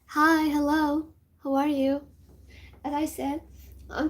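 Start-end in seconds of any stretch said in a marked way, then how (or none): 0.1-2.0 a hint of a fake-cute kid greeting; playing innocent child. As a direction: act like a harmless first grader. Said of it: "trying to be like".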